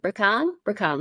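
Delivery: "Rakan" with a long AH in the second syllable; careful pronunciation. Shown as a demonstration. Host retrying the mechanic's name, "Rakan" as ruh-KAHN. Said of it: "Maybe I should pronounce it differently".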